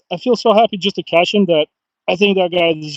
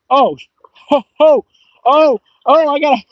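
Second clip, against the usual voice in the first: excited whoops; 9 semitones higher than usual. Real, not acted. Angler thrilled at catching a big fish, whooping. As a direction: shout with joy as the fish comes up.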